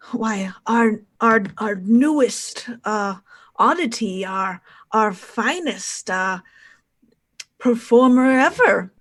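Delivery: showman's patter with swooping emphasis; lightly voiced circus showman. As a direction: play a ringmaster presenting his finest act, lightly. Game master voices Barnum.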